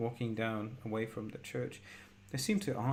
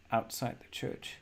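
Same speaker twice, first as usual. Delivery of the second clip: normal talking voice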